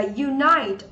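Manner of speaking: "unite" drawn out with an "eye" vowel; long I sound. Shown as a demonstration. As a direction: model "unite" slowly as you-NIGHT. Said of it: "cũng là âm I".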